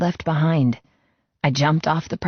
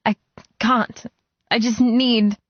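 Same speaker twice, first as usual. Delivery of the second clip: breaking down; 8 semitones higher than usual. Acted. Sobbing woman breaking down.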